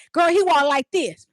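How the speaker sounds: high mocking girlfriend voice; mock his walk with glee; petty friend. Petty friend imitating the boyfriend's walk, high and mocking. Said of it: "she's like".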